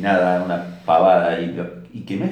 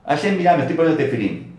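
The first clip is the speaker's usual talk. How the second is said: boasting to God; 8 semitones higher, 4 dB louder, faster than usual. Retold or imitated. Man boasting mitzvot to Hashem.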